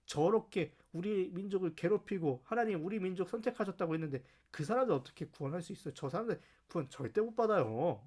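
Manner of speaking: mildly hammed-up arguing with God; indignant protest. Jonah arguing with God over Nineveh's rescue, mildly indignant. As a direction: plead and object, a touch of exasperation. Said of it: "이렇게 따졌던 사람이에요".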